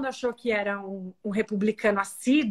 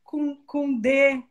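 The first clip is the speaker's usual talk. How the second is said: mocking laugh; 4 semitones higher than usual. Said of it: "Levantou a mão, rindo".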